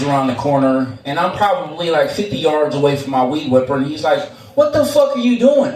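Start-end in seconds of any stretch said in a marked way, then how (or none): 4.6-5.7 mock angry boss. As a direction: play the boss catching him, half-yelling. Boss catches him off task.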